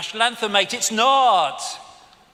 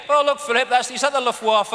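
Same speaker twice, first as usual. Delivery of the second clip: lightly voiced mock Queen, higher and louder; a hint of the Queen, teasing; 5 semitones higher, 5 dB louder than usual. Mocking the Queen to Philip.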